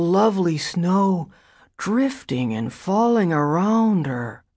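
put-on slow, dazed childlike murmur. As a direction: drift through it like a dazed child. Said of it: "in an unnatural, childlike voice".

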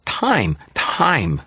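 put-on high, childlike fairy complaint; exasperated small fairy, pitched high; Toot complaining. A narrator's reading. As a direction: complain in a high little-kid voice. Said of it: "Toot complained".

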